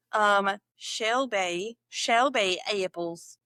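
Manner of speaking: slow Southern drawl slip; accidental Southern accent. Shown as a demonstration. Learner correcting her own accent, slow Southern drawl. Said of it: "No, that was Southern".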